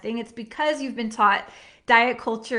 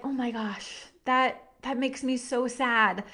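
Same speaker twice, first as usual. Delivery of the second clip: sad. Retold or imitated. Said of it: "I was like".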